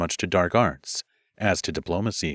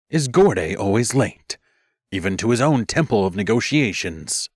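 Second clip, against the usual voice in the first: growling complaint. Acted. Animal leader growling about the late Gorday. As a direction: bite out the grievance. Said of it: "she growled".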